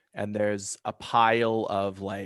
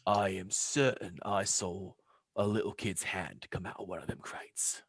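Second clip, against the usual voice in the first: imp whisper; 3 dB quieter than usual. Acted. Imp whispers to party at window.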